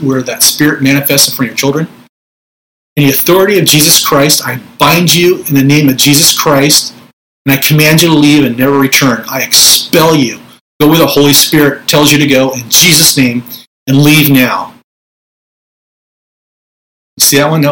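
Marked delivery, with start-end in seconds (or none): 3.0-14.7 authoritative command. Shown as a demonstration. Minister showing viewers how to command a spirit out, firm and commanding. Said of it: "It's authoritative".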